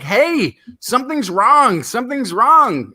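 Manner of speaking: high-pitched, insistent alarm cry; mock alarm, swooping up high; mock screaming out. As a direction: call it out high like a brain raising the alarm. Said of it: "keep screaming out like".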